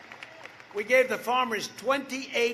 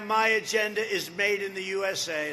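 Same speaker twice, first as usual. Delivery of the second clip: rally shout; 3 dB louder than usual. Real, not acted.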